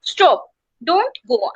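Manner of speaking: slow, firm STOP, a break, then don't go; stress on STOP. Shown as a demonstration. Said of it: "stressing that you should stop".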